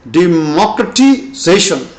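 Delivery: "democratization" with main stress on ZA, lighter stress on MOC; primary and secondary stress. Shown as a demonstration. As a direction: say "democratization" in parts, de-MOC-ra-ti-ZA-tion. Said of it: "Primary stress is on zation".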